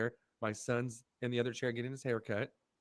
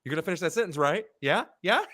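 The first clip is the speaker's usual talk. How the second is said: taunting; 5 semitones higher, 9 dB louder, faster than usual. Retold or imitated. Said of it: "I was like".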